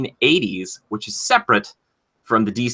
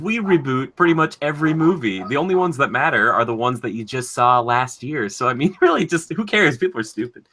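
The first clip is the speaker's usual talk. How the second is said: higher, breezy studio exec; Fox executive voice; 4 semitones higher than usual. Pretend. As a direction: shrug it off like a careless exec. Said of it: "that's Fox, by the way".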